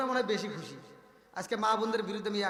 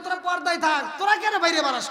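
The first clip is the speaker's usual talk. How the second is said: stern scolding; 7 semitones higher, 10 dB louder than usual. Acted. Voicing God scolding women.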